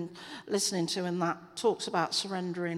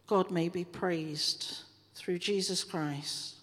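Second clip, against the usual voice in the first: prayer. Acted. Leading the church in closing prayer. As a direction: pray it over the congregation, measured.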